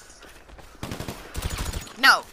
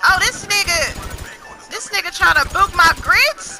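indignant outburst; 5 semitones higher than usual. Real, not acted. Indignant outburst at other player.

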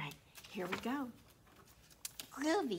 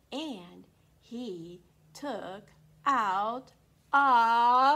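drawn-out suspense; 12 dB louder, much slower than usual. Acted. Suspense for kids.

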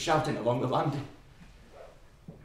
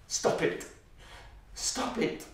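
whisper; 7 dB quieter than usual. Acted. Child under covers hearing fight.

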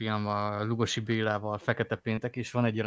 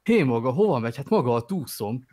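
loud; 5 dB louder than usual. Retold or imitated. Quoting Willem Dafoe's hostage line.

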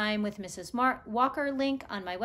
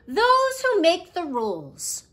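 louder mock growl of a gruff dog; 9 semitones higher, 9 dB louder than usual. Pushkin the dog answers Nikolai, mock growl. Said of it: "growled Pushkin".

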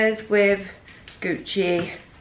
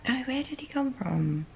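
put-on Miami accent; 5 semitones higher, 11 dB quieter than usual. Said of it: "Miami accent. I'm gonna try".

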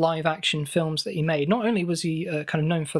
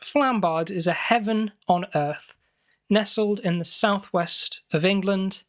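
slow advert slogan voice; ad read; 2 semitones higher than usual. Acted. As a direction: sell it like a holiday park ad. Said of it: "borrowing marketing slogans".

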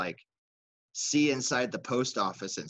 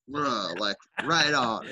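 mock attitude; much slower than usual. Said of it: "with a bunch of attitude".

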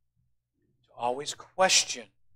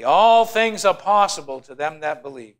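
leading the crowd, loud and steady; loud congregational recitation; 2 semitones higher, 7 dB louder than usual. Real, not acted. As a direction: call it out for everyone to repeat. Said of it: "Say it with me".

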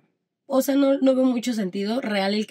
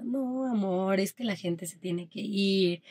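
softer, slowed reassurance; soothing husband; 5 dB quieter, slower than usual. Retold or imitated. Husband consoling his crying wife, soft, slow reassurance. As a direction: gently console a crying partner.

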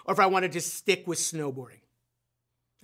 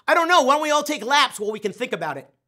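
sarcastic coach; 4 semitones higher, 5 dB louder, faster than usual. Retold or imitated. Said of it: "And then the coach says".

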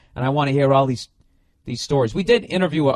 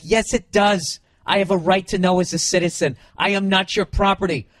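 mock impassioned citizen, raised and louder, insisting on every word; passionate protest; 4 semitones higher, 4 dB louder than usual. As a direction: play the indignant man who knows his rights, pushing back hard on the cop. Arrested man protesting passionately.

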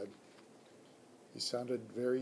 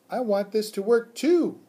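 much higher and louder squeak; eager hamster squeak; 8 semitones higher, 11 dB louder than usual. Acted. Hamster agrees with the teacher, high loud squeak. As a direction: chime in brightly as the pet. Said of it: "I replied".

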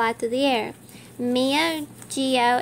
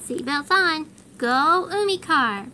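cheerful call to set off; rally the team and go; excited launch; 3 semitones higher than usual. Acted. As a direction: team setting off in the car, eager call. Launching the car.

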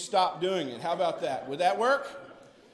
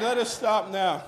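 laughing; 3 semitones higher, 5 dB louder than usual. Real, not acted. Laughing after the exercise.

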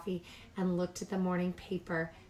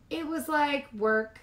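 bored reply; 7 semitones higher, 3 dB louder than usual. Acted. Bored cub answer.

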